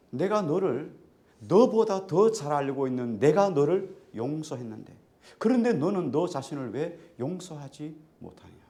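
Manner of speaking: loud, emphatic retold reproach; forceful rebuke. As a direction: press the challenge home forcefully. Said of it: "그를 책망하는 소리가 들리는 거예요".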